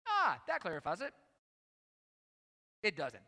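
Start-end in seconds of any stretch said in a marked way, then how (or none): 0.1-1.1 mock sarcastic relief. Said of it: "That's sarcasm".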